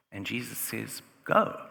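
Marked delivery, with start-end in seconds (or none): 1.2-1.6 1 sharp command. Acted. Jesus sends Bartimaeus away.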